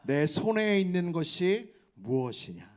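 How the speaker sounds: slow, loud chant of the theme; shouted theme. Real, not acted. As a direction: call it out slowly with the crowd. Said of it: "수련의 주제를 외쳐봅시다". (천천히 크게 외치는 주제)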